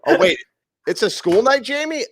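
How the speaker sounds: high, sudden mock alarm. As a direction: fake panic about bedtime. Mock alarm at school night.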